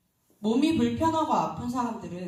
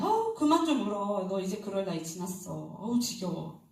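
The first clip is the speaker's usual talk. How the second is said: half-hearted nagging that settles after the first cry; mild scolding. Acted. Mother telling her crying son to stop, mildly exasperated. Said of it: "물론 말로는".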